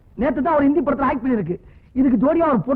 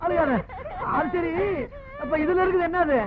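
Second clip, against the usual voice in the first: mock tearful comfort; 4 semitones higher, 4 dB quieter than usual. Comforting the weeping woman.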